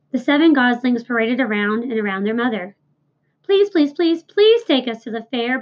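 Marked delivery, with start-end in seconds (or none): 3.4-5.6 higher pleading gosling; lightly voiced gosling begging to go to the fair. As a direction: beg like a little gosling. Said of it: "begged a gosling".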